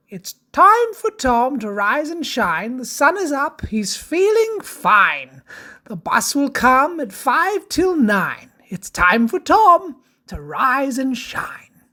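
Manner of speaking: lilting rhymed storybook read; sing-song rhyming verse; children's story narration. Acted.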